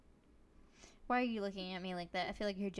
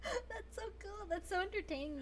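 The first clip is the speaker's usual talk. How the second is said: laughing; 11 semitones higher, 4 dB quieter than usual. Real, not acted. Laughing at the deep voice.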